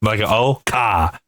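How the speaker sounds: "ka" with an open ah and no R; Rhode Island pronunciation. Shown as a demonstration. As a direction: drop the R, say "ka". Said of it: "like a C O H maybe".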